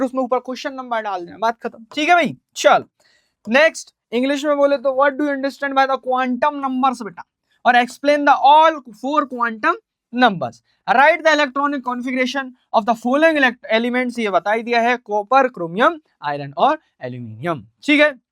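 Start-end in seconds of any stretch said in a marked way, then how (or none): 4.9-7.0 slow, word-by-word English dictation. Shown as a demonstration. Dictating exam question slowly. 7.7-14.2 slow, word-by-word English dictation. Shown as a demonstration. Dictating exam question slowly.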